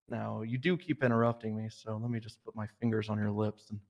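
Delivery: softened, low-key seduction, half in jest; mock seductive. Officer asked to seduce Riggs on the spot, mock seductive and soft. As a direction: lean in and purr it playfully. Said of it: "Can you seduce me in a British accent".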